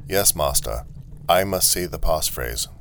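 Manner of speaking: lightly robotic statement of "I must say the passphrase"; automaton. Acted. Automaton telling the traveller its rule, evenly robotic.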